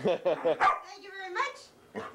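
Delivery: slow, stretched thank you; savoring a thank-you very slowly; slow drawn-out thanks. Real, not acted. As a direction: draw out each word to the dog. Thanking dog, repeats drawn-out.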